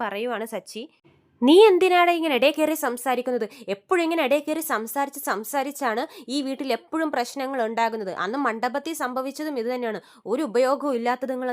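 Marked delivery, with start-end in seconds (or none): 1.4-11.5 loud scolding that cools off; a retold telling-off, loud at the start; mother scolding. Mother scolding her son for butting in, mock angry. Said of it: "Chandra ചീത്ത പറയുവാണ്".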